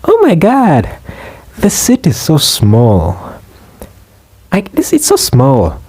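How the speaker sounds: high-pitched mock complaint, drawn out; complaining woman. Woman grumbling about the tiny seat, complaining. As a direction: whine it like a put-upon passenger. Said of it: "she begins complaining".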